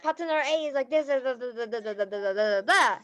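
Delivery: quick, gossipy rambling, then trailing off; mock a partner who rambles on and on; rambling complaint. Mocking a rambling complaint about partner A to the sponsor. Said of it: "don't say".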